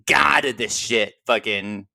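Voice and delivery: low, slow wrestler impression; quick demo of a wrestler's voice, slow and low; Nick Gage. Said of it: "I can just do, like, the".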